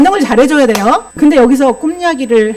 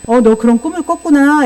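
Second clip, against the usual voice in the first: empathic reply; 3 semitones higher than usual. Shown as a demonstration. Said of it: "이렇게 공감을 해주고".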